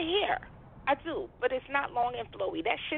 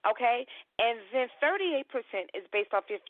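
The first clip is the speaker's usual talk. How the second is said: normal talking voice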